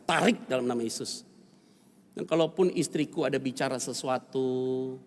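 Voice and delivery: earnest prayer voice; family prayer. Retold or imitated. Father prays over his family after the quarrel, earnest prayer. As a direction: lift it up to God as a prayer. Prays aloud in retold story.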